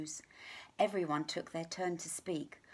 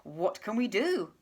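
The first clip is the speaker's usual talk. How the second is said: worried gazelle; 7 dB louder than usual. Acted. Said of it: "asked the gazelle".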